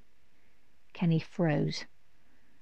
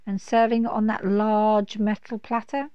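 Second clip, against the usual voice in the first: teasing dragon; 4 semitones higher, 5 dB louder than usual. Acted.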